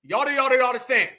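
"Y'all do, y'all do" stumbled out as slurred repeats; mock fumbled words. Commentator mimicking her on purpose, "y'all understand" mockingly fumbled. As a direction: stammer toward "understand", garbling it in mockery. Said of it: "she did that on purpose".

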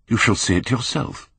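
a rising outburst, lifted high; cried out. A narrator's reading. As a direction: fling it out in a bitter burst. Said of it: "he cried".

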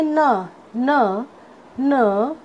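न as a lone "nuh", repeated; phonic letter sound. Shown as a demonstration. Teacher showing students the sound of N, phonic letter sound. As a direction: sound out न as N starts "nest". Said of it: "एन का sound होता है".

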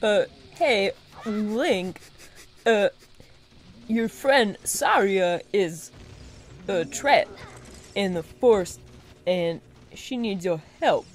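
halting, slow attempt at the actor; odd pauses between short phrases; Christopher Walken. Playing Navi telling Link of trapped friend, halting actor impression. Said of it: "do some Christopher Walken for me".

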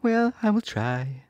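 high, slow bird voice; stork voice. A narrator's reading. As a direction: tell them plainly like a stork. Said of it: "said the stork".

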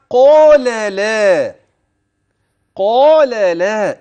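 قال لا chanted slowly, thick ق and thin ل; heavy qāf, light lām. Shown as a demonstration. Teacher demonstrating heavy ق and light ل in قال لا. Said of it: "إذن القاف مفخمة".

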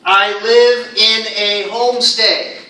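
slow, loud, evenly spaced words; example sentence read out. Shown as a demonstration. Teacher reads a student's example to the class, slowly and loudly. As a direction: read it slowly and firmly for learners. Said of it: "Here's an example one of my students gave me".

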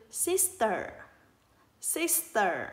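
"sister" carefully said, falling on the last syllable; phát âm mẫu. Shown as a demonstration. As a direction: model "sister" for children to copy. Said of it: "Mời các con cùng thực hành từ". (đọc mẫu "sister" rõ từng âm tiết, xuống giọng)

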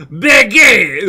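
loud, high mock French accent; hammed-up French accent outburst; Pierre. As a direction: shout it as a cartoon French accent. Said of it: "he'd be like".

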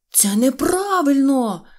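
high, loud, stretched-out cry; protesting shout. Acted. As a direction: cry foul at full voice. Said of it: "закричав Сиропчик". (протестуючий крик)

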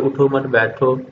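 उठो मत joined, leading on to बैठो; no pause after उठो. Shown as a demonstration. Teacher repeating the example without the stop, उठो मत joined up. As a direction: run उठो straight into मत. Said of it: "अगर इस पर ना ठहरा जाएगा".

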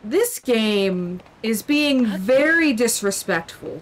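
a slight slow Southern drawl on disrespectful. Real, not acted. Offended gamer slipping into Southern, slow and drawled. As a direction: stretch it out with a hint of Southern. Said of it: "the tiniest bit of a southern drawl".

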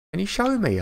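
high imitation of a kid; child's voice. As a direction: mimic an eager child's request. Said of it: "I was playing with the kids the other day".

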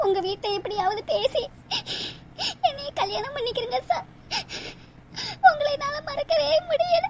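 tearful pleading through sobs; broken-hearted crying plea. Acted. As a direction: weep as you beg for him. Jilted girl weeping for lover.

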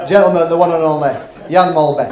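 announcer intro. Acted. Host introducing Jan Maltby to the lads, loud announcer voice. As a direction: present him like a ring announcer.

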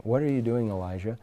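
soft, low, gentle question; still small voice. Retold or imitated. The Lord questioning Elijah, in a still small voice. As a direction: ask it quietly, dropping away on the name. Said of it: "this still small voice".

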